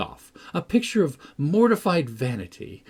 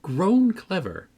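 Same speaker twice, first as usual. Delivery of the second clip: higher, louder teasing praise, slowing on "grown clever"; mocking exclamation; 6 semitones higher, 4 dB louder than usual. A narrator's reading. Catherine mocks Hareton's reading, higher and louder. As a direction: tease him as if impressed. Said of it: "I exclaimed".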